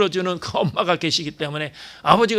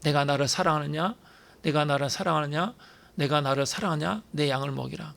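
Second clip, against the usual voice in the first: softer, gently asking the same question; Jesus gently asking Peter, softer; gentle Jesus not scolding; 5 dB quieter than usual. Retold or imitated. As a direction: coax Peter tenderly, no reproach. 주님은 베드로를 야단하지 않아.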